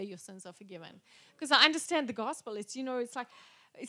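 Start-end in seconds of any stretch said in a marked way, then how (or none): 0.0-1.0 easy reassurance. Shown as a demonstration. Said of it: "I would find it very easy to say".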